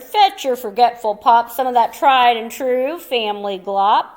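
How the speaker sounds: declared. Acted. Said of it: "he declared".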